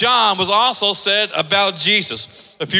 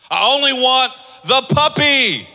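put-on little girl begging; 7 semitones higher, 3 dB louder than usual. Child's letter read aloud.

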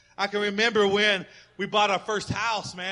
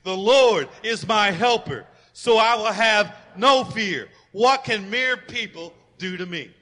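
louder, slow full-voice proclamation; as loud as you can; 3 semitones higher, 10 dB louder, slower than usual. Acted. Pastor urging everyone to shout the verse, loud. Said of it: "say it as loud as you can".

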